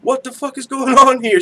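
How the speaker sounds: incredulous, half-laughing; mock disbelief. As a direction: act out a laughing "what on earth" reaction. Acting out own baffled reaction.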